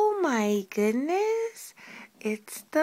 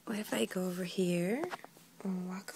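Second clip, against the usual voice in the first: softer, sneaky whisper; 7 semitones lower, 8 dB quieter than usual. Real, not acted. Mother sneaking away from the baby in a whisper.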